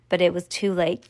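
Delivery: ordinary delivery, nothing marked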